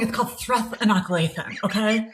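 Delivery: lisping, fast prissy know-it-all; mock her with a lisp; lisping mimic. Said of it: "how I added the lisp".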